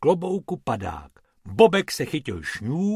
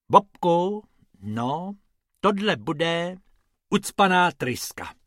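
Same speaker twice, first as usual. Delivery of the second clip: higher voiced rabbit pointing at the engine; light mechanic's verdict, pitched up; 4 semitones higher, slower than usual. Bobek tells Bob the nozzle is blocked, a bit higher.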